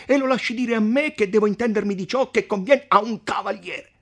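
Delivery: the count scorning the messenger as a scoundrel; arrogant count. Acted. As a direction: sneer at the mayor's scruples. Count Attilio argues on.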